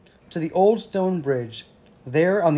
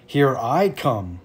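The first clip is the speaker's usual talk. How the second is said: slow, deliberate challenge; charging big goat; 3 semitones lower, slower than usual. A narrator's reading. Big goat charges at the troll, slow and determined. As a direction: announce the charge slowly.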